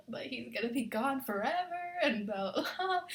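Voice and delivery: hammed-up despair; retold melodramatic lament; dramatic mock wailing. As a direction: wail it playfully, like overdone heartbreak. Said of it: "being dramatic, you know".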